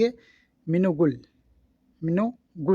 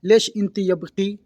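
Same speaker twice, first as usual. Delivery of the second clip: slow teaching demo; 2 semitones higher, slower than usual. Shown as a demonstration. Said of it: "ये ladies के लिए है।".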